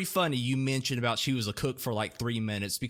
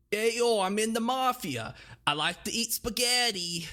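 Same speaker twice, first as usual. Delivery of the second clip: 1 New York Italian accent; 5 semitones higher than usual. Shown as a demonstration. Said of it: "let me try".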